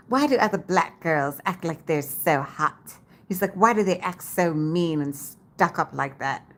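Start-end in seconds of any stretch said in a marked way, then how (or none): 0.1-2.9 lightly mimicked British friend; a hint of British in the voice; British accent. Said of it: "he has a British accent". 3.5-6.5 lightly mimicked British friend; a hint of British in the voice; British accent. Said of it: "he has a British accent".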